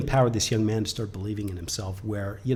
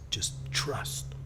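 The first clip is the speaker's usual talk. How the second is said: soft breathy whisper, much softer; whispered trust; 2 semitones lower, 10 dB quieter than usual. Retold or imitated. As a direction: hush it like a calming secret. Sensei reassures before final.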